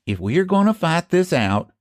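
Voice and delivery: calm, even, unhurried; lightly voiced old man keeping his cool; calmly. A narrator's reading. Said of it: "said Eph calmly".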